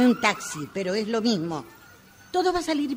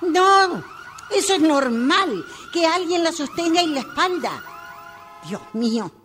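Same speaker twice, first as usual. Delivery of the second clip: anxious; 4 semitones higher than usual. Acted. Anxious father during birth.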